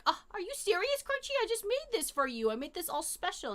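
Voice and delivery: exaggerated hurt mom voice begging her picky pet; mock-hurt mommy. Mom pleading with picky dog.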